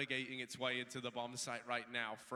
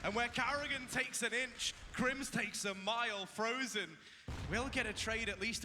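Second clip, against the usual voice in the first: excited climax call; 8 semitones higher than usual. Real, not acted. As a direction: let it explode as the round swings. Caster erupts at the clutch fight.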